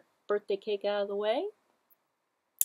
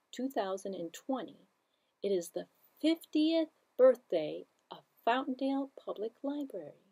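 put-on overbright kids party host; 3 semitones higher than usual. Children's librarian greeting.

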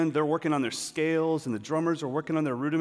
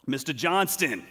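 lightly imitated New York coach accent, louder; 3 semitones higher, 5 dB louder than usual. Substitute coach calling out the student, mock New York accent. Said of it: "He's, like, from New York or Boston in my head".

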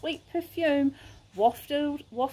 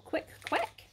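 whispered; 3 semitones higher, 7 dB quieter than usual. Acted. Crocodile's sly invitation.

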